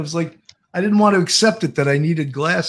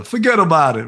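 louder Brooklyn "Forget about it", heavy on forget; 4 dB louder than usual. Retold or imitated. Host doing the Brooklyn catchphrase for Florida. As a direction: toss it off like a Brooklyn local. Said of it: "that's a Brooklyn word".

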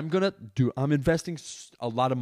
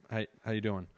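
tight-lipped greeting; 3 semitones lower, 6 dB quieter than usual. Shown as a demonstration. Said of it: "which is this one".

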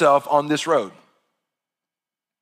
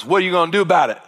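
Arkansas accent; much faster than usual. Shown as a demonstration. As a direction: say it like a good Arkansas country boy. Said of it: "let me hear you say one time in a good Arkansas voice".

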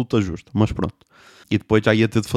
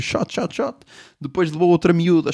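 usual speaking voice

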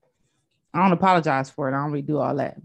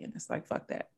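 whispered aside; 13 dB quieter than usual. Real, not acted. Emphatic aside.

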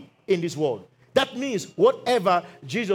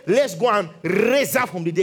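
dramatic emphasis with a rolled "raise"; mock grand declaration; 3 dB louder than usual. Preacher voices what Jesus didn't say, mock grand declaration. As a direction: make it a big, showy announcement. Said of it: "He didn't say".

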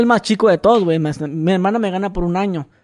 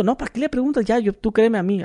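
put-on pleading boyfriend; 4 semitones higher, 3 dB quieter than usual.

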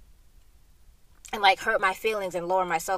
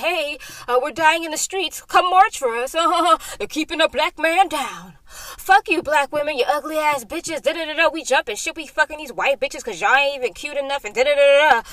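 mocking black men; 8 semitones higher, 10 dB louder than usual. Mocking black men's hypocrisy.

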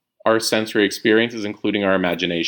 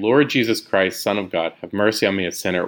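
prayed slowly. Shown as a demonstration. Teacher praying the whole line, slow and fading. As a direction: pray it slowly as a breath. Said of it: "That you're praying".

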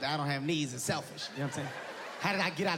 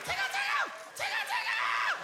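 cooing tickle. Retold or imitated. Giddy wife tickling her tired man, squealing high. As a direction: coo it like tickling a baby. Happy woman tickling him.

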